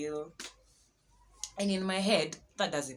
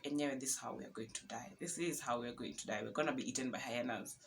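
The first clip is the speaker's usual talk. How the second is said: low, quiet and resigned; quiet low despair, sure they are doomed; defeated despair; 4 semitones lower, 9 dB quieter than usual. Retold or imitated. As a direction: mutter it like all hope is gone. Despair after cars pass.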